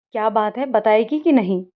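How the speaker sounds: mildly irritated, pushing for an answer; a bit annoyed. Acted. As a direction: press her, a touch annoyed. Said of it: "थोड़ा गुस्सा होते हुए". (थोड़ी झुंझलाहट से)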